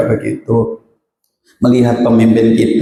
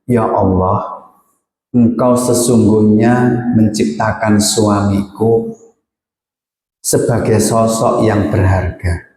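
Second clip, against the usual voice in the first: heartfelt prayer. Shown as a demonstration. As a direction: pray humbly, letting go. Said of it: "hatinya harus begini". (doa tulus yang pelan dan khusyuk)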